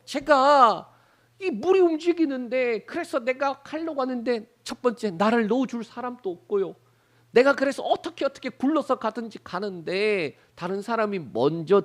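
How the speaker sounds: complaining sick man. Retold or imitated. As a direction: whine out the sick man's excuses. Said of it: "이 병자가 뭐라고 말하는 거예요". (억울한 병자처럼 높고 크게 하소연하며)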